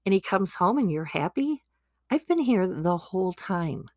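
a touch of bitter complaint; resentful older son. Acted. Older brother complaining to dad, mildly bitter. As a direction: grumble it, feeling cheated. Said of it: "And Repeat's like".

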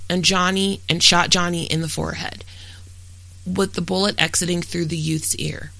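documentary-style read, even and factual; true-crime narration. Real, not acted. Host reads a murder case to listeners, steady true-crime narration. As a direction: read a prepared case account aloud in steady, fluent sentences.

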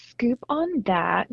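usual speaking voice

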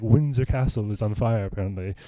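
a touch of airy English chattiness; whimsical. Retold or imitated. Recalling what he told his uncle, mildly whimsical.

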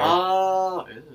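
high grossed-out ew; squealing ew at the creepy twist; disgusted. Real, not acted. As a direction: recoil in disgust. Friend disgusted by scary story.

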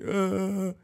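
high, whiny imitated sob; drawn-out fake weepy groan; mock crying whine. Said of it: "He was just crying like".

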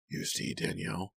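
soft whisper into her ear; hushed, close-up whisper. A narrator's reading. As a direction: whisper it intimately, with quiet confidence. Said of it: "Kit whispered in her ear".

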